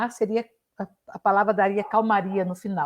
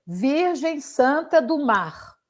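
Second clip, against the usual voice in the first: slow, measured charade clue, pitched up; riddle clue; 4 semitones higher, much slower than usual. Shown as a demonstration. Teacher demonstrates how to set a charade, slow riddle delivery. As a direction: pose the clue slowly and deliberately. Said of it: "eu falo assim".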